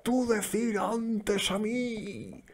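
high, slow, grunting caveman voice; an angry caveman on the sofa jabbing his finger; caveman talk. Retold or imitated. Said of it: "ahí con la cachiporra".

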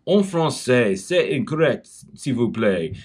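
lightly acted teacher correcting in French; hint of a scolding French teacher, quick noes; imitated French teacher. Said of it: "the teacher stops and she goes".

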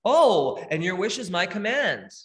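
loud exclaimed 'Oh', then lightly voiced genie; genie in a bottle. Genie granting the wish from the lamp, lightly hammed-up genie. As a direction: announce it like an obliging genie. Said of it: "The genie in the bottle comes out".

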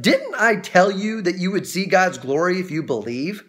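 understated reproachful question; mild, emphatic chiding; pointed reproach. Acted. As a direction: press it home as a rebuke. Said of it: "I can just hear his tone".

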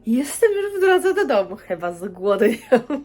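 high, laughing read of a text message; laughing quote. Retold or imitated. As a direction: laugh your way through the quote, high-pitched. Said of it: "i mówi". (ze śmiechem, wysoko)

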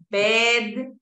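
"Bed" with a clearly sounded final d; marked word ending. Shown as a demonstration. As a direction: release the d at the end of "Bed". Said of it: "Siempre la terminación es importante".

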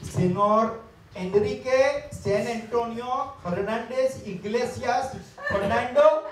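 loud, formal butler announcing a guest; grand announcement. Acted. Butler announcing the suitor to the ladies, formal and loud. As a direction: announce the full name with pomp.

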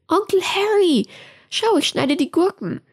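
put-on high, bright-eyed child voice; little girl. A narrator's reading. Little Rose shows uncle Harry her cucumbers, high child voice. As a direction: play a small girl proudly showing her work.

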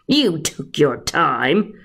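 slow, drawn-out serpent voice; sly snake. Acted. The snake mocking Patrick for coming late, slow snake voice. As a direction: savour every word like a snake. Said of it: "he hissed".

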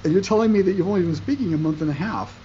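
a professor floored by the news; incredulous professor. Retold or imitated. Professor tells his student the course level, incredulous.

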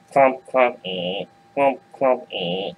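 lightly acted clumps with creaks; clumping hoof noises. Big goat crosses swaying bridge, mock clumping and creaking. Imitates heavier steps and creaking ropes.

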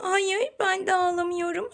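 a hushed Barbie denying it; quiet doll voice. Pretend. Mother voices Barbie doll reply. (yumuşak, alçak sesli Barbie bebek)

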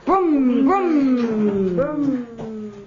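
car noise. Shown as a demonstration. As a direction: model the brum sound clearly. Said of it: "I'm gonna say it first".

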